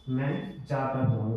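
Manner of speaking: तो leaned on in मैं जाता तो हूँ; emphatic तो before हूँ; stress on तो. Shown as a demonstration. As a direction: give तो the weight. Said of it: "वो ज़्यादा सही लग रहा है".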